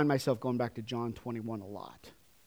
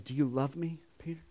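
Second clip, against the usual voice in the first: whisper; 5 dB quieter than usual. Acted. Jesus quoted in hushed voice.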